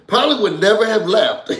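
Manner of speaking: laughing through the line. Real, not acted. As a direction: repeat it while laughing.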